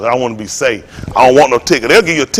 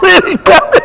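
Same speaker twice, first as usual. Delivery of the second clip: high anxious voice; 12 semitones higher than usual. Pretend. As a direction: wail it like the scared toilet. Acting toilet's anxiety, laughing.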